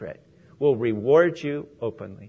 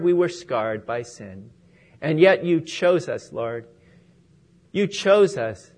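prayer. Real, not acted. Closing prayer.

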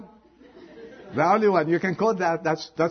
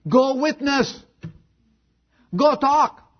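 urgent command; 8 semitones higher, slower than usual. Acted.

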